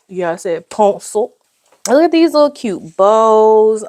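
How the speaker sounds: ordinary talk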